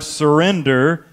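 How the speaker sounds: "surrender" drawn out slowly with emphasis; stress on surrender. Shown as a demonstration. Preacher echoing a revival call, slow emphasis on "surrender". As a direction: lean slowly on the word "surrender". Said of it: "emphasizing that word".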